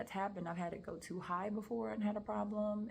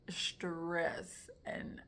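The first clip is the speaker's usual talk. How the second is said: getting emotional; slower than usual. Real, not acted. Woman reliving her stressful moment, getting emotional. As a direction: voice sinking to a near whisper, close to tears. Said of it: "I get emotional now".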